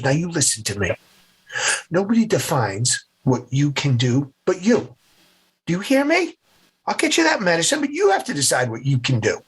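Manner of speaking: firm mom pep talk, pitch jumping mid-speech; stern mom. Retold or imitated. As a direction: imitate a mother demanding attention. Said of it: "for getting my attention in moments like this".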